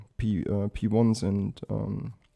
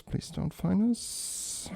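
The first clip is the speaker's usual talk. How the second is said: higher, slow anxious plea; pleading; 9 semitones higher, much slower than usual. Real, not acted. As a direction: beg it, drawn out and high. Hiding from enemy radar.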